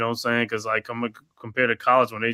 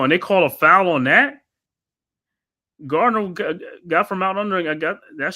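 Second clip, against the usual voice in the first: higher and louder, disbelief at the ref; outraged protest; 7 semitones higher, 5 dB louder than usual. Real, not acted. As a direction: argue the call like a wronged fan. Protesting a foul call.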